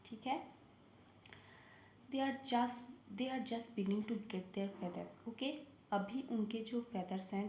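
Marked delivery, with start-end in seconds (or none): 2.1-5.3 slow, deliberate storybook reading; reading to children. Acted. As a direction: read it slowly to the kids, word by word. Reads story line slowly.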